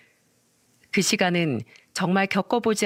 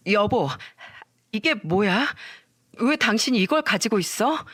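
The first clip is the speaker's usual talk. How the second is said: flustered babbling. Retold or imitated. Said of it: "횡설수설하며 말했죠".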